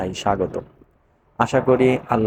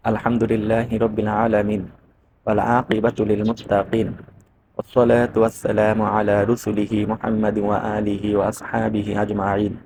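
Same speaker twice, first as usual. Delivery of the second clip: Quran recitation. Acted. Teacher opening class with Quran verses, measured recitation.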